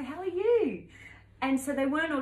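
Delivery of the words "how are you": chirpy greeting. Retold or imitated. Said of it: "I go".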